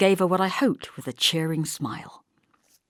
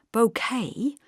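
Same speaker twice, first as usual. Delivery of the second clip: correcting; 6 semitones higher than usual. Acted. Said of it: "she corrected him".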